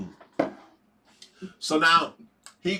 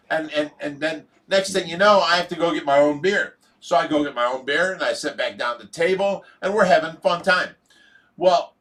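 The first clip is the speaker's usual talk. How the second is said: ordinary talk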